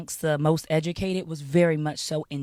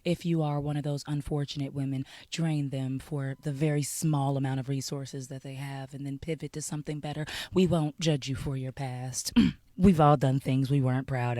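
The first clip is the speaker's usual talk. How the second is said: mock sympathy; 4 semitones lower than usual. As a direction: drop to a hushed, pseudo-tender condolence. Mock sympathy after laughing.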